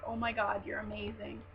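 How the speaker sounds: mock a creepy admirer under your breath; creepy fan. Fan rehearsing what not to tell an idol, mock creepy. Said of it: "not to sound, like, creepy".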